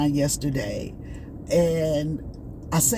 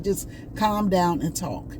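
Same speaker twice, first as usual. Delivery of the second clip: mock calming inner voice; slower than usual. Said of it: "It was like".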